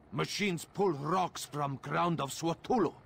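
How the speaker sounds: loud, urgent warning about the machines; urgent call. Acted. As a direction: raise the voice to rally them. Urging fight against machines.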